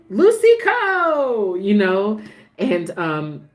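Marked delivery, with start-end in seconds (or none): 0.1-1.5 drawn-out greeting, much higher and louder; Bobby's gracious greeting. Retold or imitated. Bobby greeting Lucy at the nurses' ball: high, stretched, loud welcome. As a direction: call her name like a warm welcome, stretched slow. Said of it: "Bobby was being so gracious and was like".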